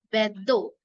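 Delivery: बेद्दो with a held, strong doubled द; बेद्दो with the dd held before ओ; strong double d. Shown as a demonstration. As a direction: press and hold the द in बेद्दो. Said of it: "द की double sound आ रही है, strong".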